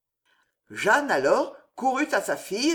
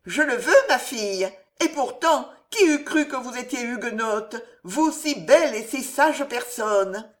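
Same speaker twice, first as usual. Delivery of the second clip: put-on old landlady; 5 semitones higher, 3 dB louder than usual.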